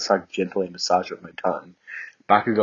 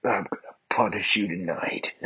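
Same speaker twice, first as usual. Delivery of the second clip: seductive. Acted. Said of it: "he chuckled seductively".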